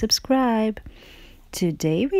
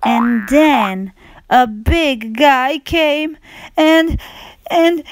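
squeaky high little pig, near tears, crying out; high upset piggie; 8 semitones higher, slower than usual. Acted. Little pig telling her elephant friend, higher and wailing. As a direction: play the small friend wailing that the ball was taken, much higher.

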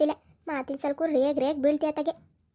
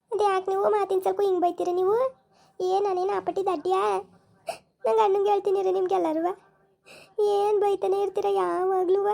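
put-on higher, sulky, complaining young woman; sulky young wife; 6 semitones higher than usual. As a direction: pout and protest like a wronged young wife. (ಮುನಿಸಿಕೊಂಡ ಯುವತಿಯ ಧ್ವನಿ)

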